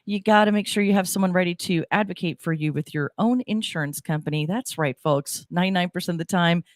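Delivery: announcer promo voice; radio ad read. Acted. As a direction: sell it like a local radio spot. Reads station promo and sponsor ad.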